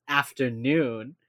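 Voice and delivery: slow, drawn-out afternoon; slow correction. Retold or imitated. Elle correcting Derek, slow and pointed. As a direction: drawl it to correct him.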